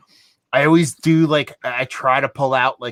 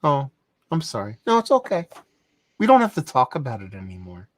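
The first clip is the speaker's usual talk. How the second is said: mock-gentle, condescending reassurance; talking down as if to a baby. Enraging someone in an argument, patronizing baby-talk calm. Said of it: "act like you're talking to a baby".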